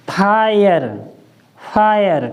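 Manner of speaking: फायर said twice as fire; फायर pronounced clearly for the class; model word. Shown as a demonstration. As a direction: give फायर like the English fire. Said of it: "तो हम इसको क्या पढ़ेंगे".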